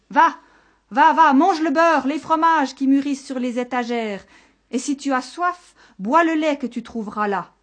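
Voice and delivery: high, loud start easing slightly; panicked urging. Acted. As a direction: urge the monster away in desperation. Desperate shepherd sends monster to dairy. (supplication affolée, voix haute)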